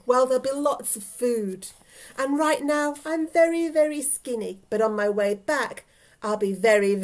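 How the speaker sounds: mildly urgent, emphatic bargaining; lightly voiced insistent old lady; pleading old lady. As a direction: bargain eagerly, leaning on key words.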